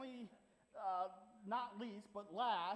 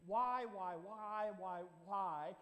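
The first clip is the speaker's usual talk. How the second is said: 1 mock whiny kid; slower than usual. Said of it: "they would say".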